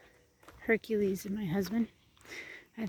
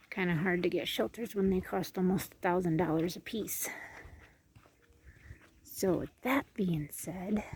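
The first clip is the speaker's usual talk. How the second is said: whisper; 2 semitones lower, 5 dB quieter than usual. Real, not acted. Whispered aside about shelter costs.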